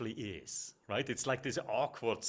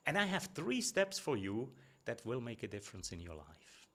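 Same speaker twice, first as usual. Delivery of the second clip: bold, direct promise of three steps; direct and confident; 2 semitones lower, 13 dB louder than usual. Shown as a demonstration. Coach shows a speaker a direct opener, confident and firm. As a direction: say it straight, no hedging, counting off each step. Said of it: "You can be way more direct here".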